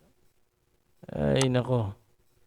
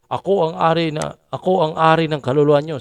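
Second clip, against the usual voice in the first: mock preacher boast; 6 dB louder than usual. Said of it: "ang ganun magsalita".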